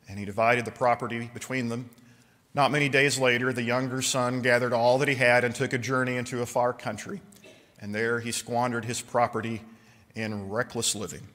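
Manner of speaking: measured Bible reading; scripture reading. Acted. Reads the Luke passage.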